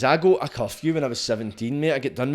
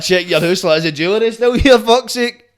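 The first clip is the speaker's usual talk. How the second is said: high, loud panicky checking; rising alarm over the missing jewellery; panicked quote; 8 semitones higher, 7 dB louder than usual. Retold or imitated. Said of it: "You're like".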